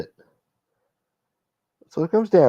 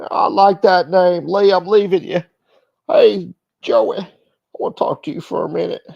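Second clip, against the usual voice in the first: voiced mob guy; 4 semitones higher than usual. Mobster pitching a team-up to Joey, mock wiseguy. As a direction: sweet-talk him like a hustler.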